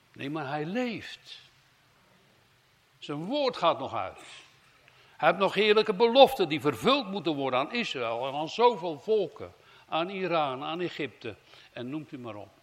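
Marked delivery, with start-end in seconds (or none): 5.2-11.4 rising to a loud, full-voiced proclamation. Real, not acted. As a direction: preach it out to the whole hall. Preacher proclaiming God's promises. (luid verkondigend)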